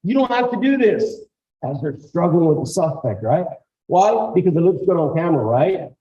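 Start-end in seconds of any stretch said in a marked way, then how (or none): 0.0-1.3 raised, firm calming commands; calm officer commands. Shown as a demonstration. Officer talking down a struggling suspect, firm and raised. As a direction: talk the suspect down firmly. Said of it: "tell them".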